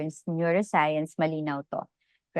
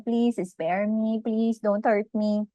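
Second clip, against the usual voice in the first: slow, slightly raised plea for mercy; understated acted pleading; mild plea; 4 semitones higher, slower than usual. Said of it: "Isang tahimik na pakiusap".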